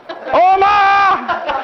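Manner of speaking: put-on high child's call for help. Grandson calls his uncle for reinforcements, high call. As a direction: call out for backup like a small boy. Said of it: "he calls for reinforcements".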